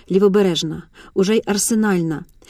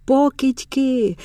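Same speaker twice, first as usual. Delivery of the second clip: ringing shout; 4 semitones higher, much slower than usual. A narrator's reading. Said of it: "дзвінко кричить чорним щурам".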